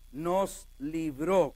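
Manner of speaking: "libró" with the weight on the last syllable; deliberate accent on the ó of "libró"; stress on final O. Shown as a demonstration. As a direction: say "nos libró" slowly, landing on the final ó. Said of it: "con acento en la O".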